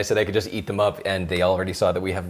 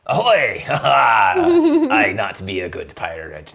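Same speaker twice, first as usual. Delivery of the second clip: put-on pirate accent; 5 dB louder, much slower than usual. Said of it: "hello in pirate".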